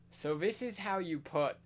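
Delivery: light American accent, imitating a streamer; hint of an American streamer voice; mock American accent. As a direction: slip into a casual American accent. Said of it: "I don't know why I'm American".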